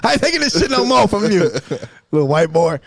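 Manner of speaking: defiant, done with it; sassy mock outburst; sassy substitute. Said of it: "She's like".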